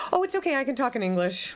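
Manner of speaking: fast, hushed, polite dismissal; fast mock-polite Parisian brushing off bad French. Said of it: "French people would just be like".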